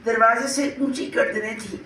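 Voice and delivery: measured mushaira verse reading; poem recitation. Acted. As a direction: recite the couplet line by line, pausing between lines. Recites her flood poem. (शायरी सुनाने का अंदाज़)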